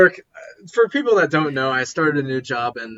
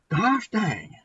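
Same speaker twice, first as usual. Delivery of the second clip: higher-pitched hammed-up redneck twang; redneck accent; 4 semitones higher, 3 dB louder than usual. Podcast host raving about an EP, mock redneck accent. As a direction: play an amazed redneck, American country accent. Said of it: "I'm trying to be redneck".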